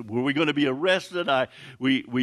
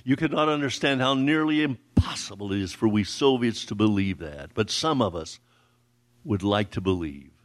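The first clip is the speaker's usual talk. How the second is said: voice quivering with emotion; 6 semitones lower than usual. Retold or imitated. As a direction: retell her words gently moved, understated. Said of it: "in a voice quivering with emotion".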